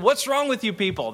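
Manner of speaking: mock-angry rebuke; R C Sproul angry. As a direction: imitate an exasperated scolding, only a little heated. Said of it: "it got Sproul really angry".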